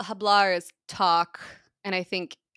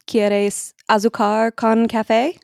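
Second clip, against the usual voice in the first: slow, loud Spanish question; waiter in Spanish; 4 semitones higher, 11 dB louder, slower than usual. Acted.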